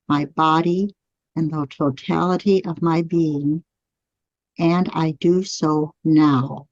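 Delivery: slow, measured affirmation with long pauses. Shown as a demonstration. Teacher leading the class through the right brain affirmation slowly. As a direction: say it slowly so they can follow. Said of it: "As you say these words out loud".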